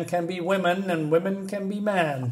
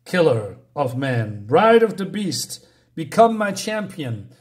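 ominous voice. Retold or imitated. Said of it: "something speaks to her".

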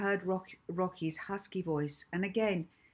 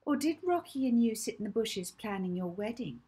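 jibing; 5 semitones higher than usual. Acted. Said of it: "jibed Hazel".

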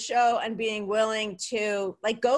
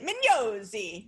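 slow Jersey Italian Mignozzi; Jersey Italian accent; slower than usual. Shown as a demonstration. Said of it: "that's my Jersey Italian accent".

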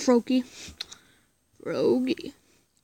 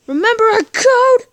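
higher and louder, pressing; louder insisting; 7 semitones higher, 9 dB louder than usual. Acted. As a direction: push the question harder. Repeating the code, louder.

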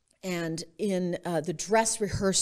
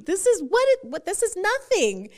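higher, louder, fast amused disbelief; incredulous friend; 7 semitones higher, 4 dB louder than usual. Retold or imitated. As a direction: laugh it off as nothing. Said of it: "She said".

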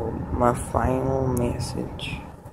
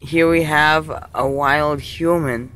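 nature documentary; 3 semitones higher than usual. Pretend. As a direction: narrate like an Aussie croc hunter. Crocodile Hunter style wildlife commentary.

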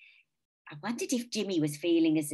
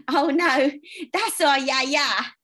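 laughing; 9 semitones higher, 9 dB louder, slower than usual. A narrator's reading. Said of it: "laughed Jimmy".

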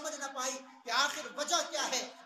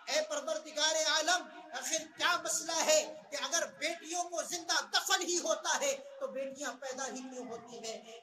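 anguished prayer; 3 semitones higher, 4 dB louder than usual. Retold or imitated. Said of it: "دست سوال اٹھایا اور کہا".

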